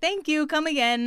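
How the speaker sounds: lightly voiced Indian accent imitating Apu; quick parody of the Apu catchphrase; a hint of a mock Indian shopkeeper accent. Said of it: "mimicking Apu".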